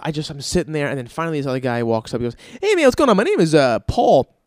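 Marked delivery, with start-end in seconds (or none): 2.6-4.3 mock salesman greeting. Salesman voiced in retold story.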